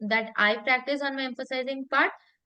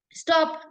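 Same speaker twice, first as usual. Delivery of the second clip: one firm Stop as a command; emphatic Stop; 3 semitones higher than usual. Shown as a demonstration. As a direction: STOP set alone, punched. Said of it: "I'm, like, emphasizing on certain words".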